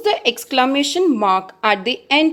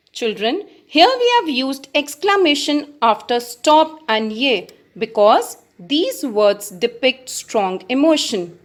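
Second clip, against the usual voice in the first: normal talking voice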